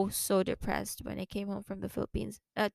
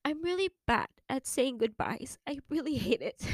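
tearful confession, voice unsteady from crying; still crying; 2 semitones higher than usual. Real, not acted. Podcaster confessing trouble with goodbyes, tearful. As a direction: admit it while holding back real tears. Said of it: "my first time crying".

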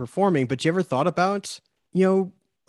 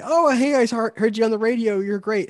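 imitating gushing friends; 8 semitones higher than usual. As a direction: play an excited friend gushing over the radio ad. Friends' praise voiced in retelling.

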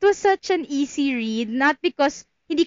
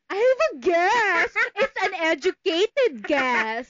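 slow, higher, smug mock quote; mock smug guess; 5 semitones higher, slower than usual. Teasing her friend by imitating her smug guess. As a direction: drawl it like a know-it-all. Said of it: "Ngayon parang".

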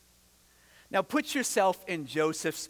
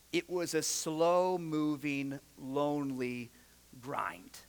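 slowing, softer, lower, down to a whisper on grind; fading hush; 5 semitones lower, 5 dB quieter, slower than usual. Real, not acted. Preacher picturing the lonely years, fading to a whisper. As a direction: let it sink into a whisper.

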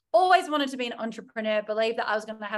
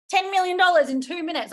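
exaggerated disbelief; 7 semitones higher, 6 dB louder than usual. Real, not acted. Mocking others' easy success.

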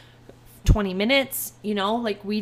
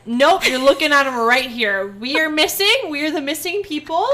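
retold angry insistence; 3 semitones higher, 5 dB louder than usual. Arguing with gate agent.

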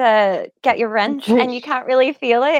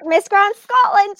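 high, slow pageant announcement; Amy Mysak; 8 semitones higher than usual. Retold or imitated. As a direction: stretch out the title like a pageant contestant. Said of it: "it's more like Amy Mysak".

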